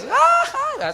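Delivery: a high joyful Mexican yell; mariachi grito. Retold or imitated. Preacher imitating a mariachi grito for the congregation. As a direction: let out the mariachi cry, way up high. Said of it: "Sale el grito".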